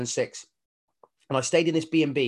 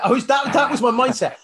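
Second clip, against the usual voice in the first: laughing admission; 10 semitones higher, 6 dB louder than usual. Real, not acted. Laughs at his own past mindset.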